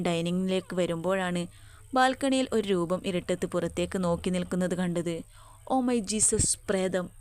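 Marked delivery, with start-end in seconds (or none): 5.7-7.1 mock scream. A narrator's reading. Jenni mistakes a figure on the balcony for a ghost, mild scream. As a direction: cry out in fright without real volume. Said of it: "അവൾ അലറി".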